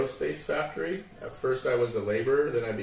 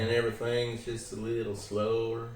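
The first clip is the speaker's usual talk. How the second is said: Southern accent. Shown as a demonstration. Showing the interviewer Southern speech, Southern accent. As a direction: let it roll out in a Southern accent. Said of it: "like the Southern accent, they all talk like this".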